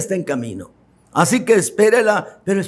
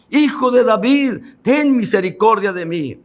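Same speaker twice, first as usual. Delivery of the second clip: pleading cry, read aloud; 3 semitones higher than usual. Retold or imitated. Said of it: "él clamaba mucho más".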